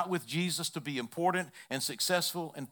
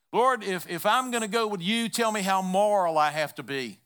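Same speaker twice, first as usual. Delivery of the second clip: higher and louder, bargaining; imitating Thomas asking for the rules; preacher voicing Thomas begging the Lord for a list, higher; pleading Thomas; 4 semitones higher, 4 dB louder than usual. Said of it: "Thomas wanted a list".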